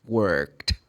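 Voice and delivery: "worked" ending in a T sound; voiceless past ending. Shown as a demonstration. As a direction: say "worked" as one syllable, workt. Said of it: "you should pronounce the sound of E D".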